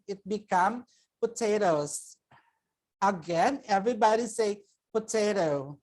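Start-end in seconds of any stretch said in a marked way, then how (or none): 1.2-2.1 "potatoes" with the final S sounded; plural potatoes. Shown as a demonstration. Teacher contrasts plural for students, ending sounded. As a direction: land the ending of "potatoes" clearly. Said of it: "But if more than one".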